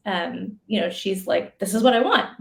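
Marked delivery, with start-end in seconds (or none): 1.6-2.4 very direct. Retold or imitated. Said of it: "very direct".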